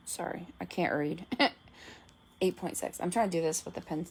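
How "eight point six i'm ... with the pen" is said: talking around a pen; words slurred by pen in mouth; pen in teeth. Real, not acted. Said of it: "pen in my mouth".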